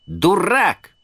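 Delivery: высокий, громкий выкрик; бросить обидное слово в лицо; крик. Acted. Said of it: "Динь прокричала в ответ". (фея Динь кричит на Питера, зло)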